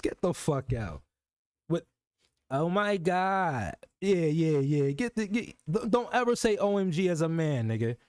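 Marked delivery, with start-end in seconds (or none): 2.5-3.7 very slow, drawn-out oh my God; mock gush. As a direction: ham up his text. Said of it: "That nigga said".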